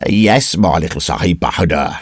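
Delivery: taunting man's voice; tallest tribesman. Acted. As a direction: tease the child as a menacing stranger. Tallest man mocks the boy.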